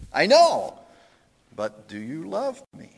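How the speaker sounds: high, loud then tender question; insistent Tevye. Retold or imitated. Tevye asks his wife again, loud then gentle.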